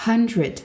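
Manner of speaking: hundred opened with a clear breathy H; aspirated H. Shown as a demonstration. Teacher modelling the H sound of hundred for pupils. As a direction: push air out on the H of hundred. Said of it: "produire une aspiration pour prononcer le H".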